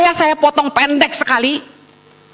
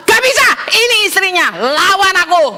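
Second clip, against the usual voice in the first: higher-pitched mock confrontation; indignant wife; 3 semitones higher than usual. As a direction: playfully challenge a rival as the wife. Wife confronting flirtatious texters.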